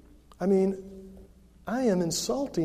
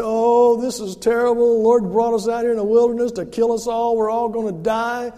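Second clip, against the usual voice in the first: loud, higher complaining wail; whining Israelites; 4 semitones higher, 8 dB louder than usual. Retold or imitated. Israelites in the wilderness complaining to Moses, loud whining. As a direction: moan like doomed grumblers. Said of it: "they say".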